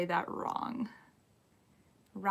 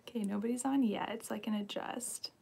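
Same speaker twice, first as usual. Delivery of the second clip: whispering; 7 dB quieter than usual. Real, not acted. Whispering while nobody has joined.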